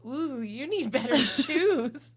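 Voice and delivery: slow, drawn-out snooty jab; mock shady remark. Friend mimics the rude waitress, slow and catty. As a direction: put on a catty waitress, slowly. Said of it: "being like".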